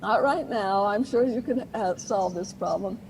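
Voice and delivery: lightly voiced kind but firm parent. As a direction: gently hold the line with the child. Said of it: "in a nice, kind, and firm way".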